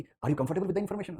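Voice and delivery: slow, gentle, high and courteous; imitating a gentle Texan cop, slow and kind; very lovingly. Texas cop reassures Indian visitors, slow and gentle. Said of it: "इतना प्यार से बोला कि".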